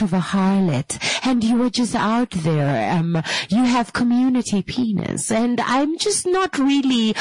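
sugar-coat it like a proper lady; overly polite darling. Pretend. Mock-genteel wife scolding a cheating partner, prim and sweet. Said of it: "Nobody talks like that".

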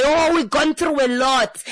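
lightly mimicking everyone's tired complaint; a hint of a weary crowd voice; mock weary sigh. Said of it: "we come back and we say".

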